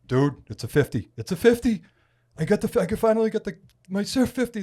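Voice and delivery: high, loud, tumbling over the words; all fired up. Retold or imitated. Angler showing his friend a fifty-pound fish, all fired up. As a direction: imitate a buddy bursting with excitement over a trophy catch. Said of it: "He's, like, all fired up".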